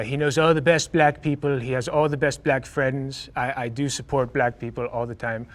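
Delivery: half-hearted, lightly voiced mock politician; hint of a badly faked presidential voice; bad Trump impression. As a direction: do a poor imitation of a boastful president. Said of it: "sorry, that was a very bad impression".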